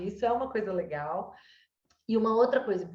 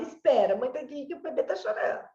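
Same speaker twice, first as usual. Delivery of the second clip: brushing-off parent; 5 semitones higher, 3 dB louder than usual. Shown as a demonstration. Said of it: "eu falo".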